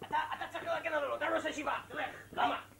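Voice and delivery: high, loud, fast student voice; hammed-up pushy classmate; another student. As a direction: egg him on in a squeaky student voice.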